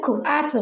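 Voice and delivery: "ku ati" split into two chunks, the k with an added u; wrong blend. Shown as a demonstration. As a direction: sound it out badly as "ku ati". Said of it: "ask the child to blend".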